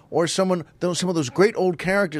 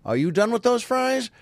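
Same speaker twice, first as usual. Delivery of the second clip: musical question; 7 semitones higher than usual. Acted. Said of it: "asking the musical question".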